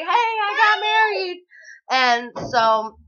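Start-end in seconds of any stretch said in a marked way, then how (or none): 0.0-1.4 high, light imitation of the brother; a bright casual announcement, mocking him; brother's phone call. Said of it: "just called and was like".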